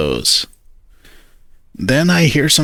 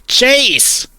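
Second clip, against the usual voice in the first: much higher, shocked yelp of the name; shocked outcry; 13 semitones higher than usual. A narrator's reading. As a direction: cry out his name, scandalized. Shocked at explicit website.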